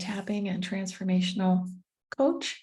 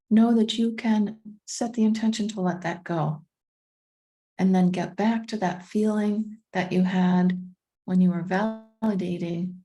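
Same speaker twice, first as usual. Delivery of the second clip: calm meditation guide with long pauses; unhurried, measured guiding voice; guided meditation; 3 dB louder than usual. Acted. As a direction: ease listeners inward, leaving space after each phrase.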